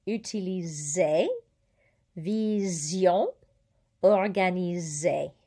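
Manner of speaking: UTILISER, VISION, ORGANISER each with a drawn-out Z. Shown as a demonstration. Teacher listing examples, S as Z. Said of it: "One S between two vowels has a Z".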